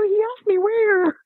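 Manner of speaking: high, drawn-out silly quote; high-pitched comic re-enactment; mock retold exchange. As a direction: retell it slowly in a high voice. Retells her own funny exchange.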